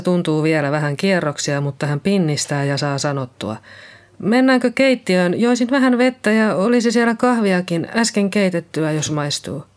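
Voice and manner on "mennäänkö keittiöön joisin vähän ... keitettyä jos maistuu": lightly voiced shaken woman, a little higher; Liisa, shaken nurse. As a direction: speak as Liisa just come round. Liisa voiced after fainting. (kevyesti äänitetty järkyttynyt Liisa)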